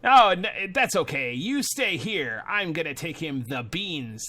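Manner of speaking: lightly voiced Scud, drawing out phrases; measured, lightly put-on character talk. Scud fobs Jimmy off about beans, lightly put-on voice. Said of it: "this is clearly a different voice".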